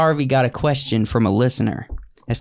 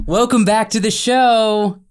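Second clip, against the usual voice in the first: radio host voice; 8 semitones higher, 3 dB louder, slower than usual. Retold or imitated. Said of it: "You got Ryan Seacrest going like".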